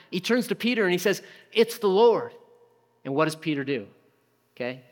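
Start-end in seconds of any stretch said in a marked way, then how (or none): 1.5-2.3 high, louder burst of recognition; excited realization. Retold or imitated. Disciple turns to Peter, excited and louder. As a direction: blurt it out in amazement.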